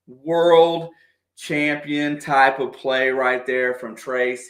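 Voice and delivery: hyped call. Real, not acted. Fan commentator hyping his star player's scoring run. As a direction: shout the praise, then savor it. Excited fan calling big play.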